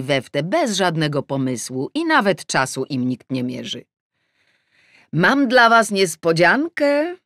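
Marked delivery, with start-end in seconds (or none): 5.1-7.2 high, loud and slow, beaming; joyfully. Acted. Mother announcing her surprise to the family, joyfully. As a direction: announce a happy surprise, drawn out. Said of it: "Powiedziałam to zdanie równie radośnie".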